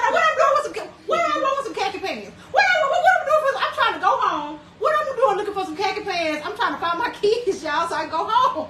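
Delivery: baffled and giggling, fast; laughing disbelief. Retold or imitated. Telling the stream about the khaki mix-up, laughing high and loud. Retelling her baffled reply.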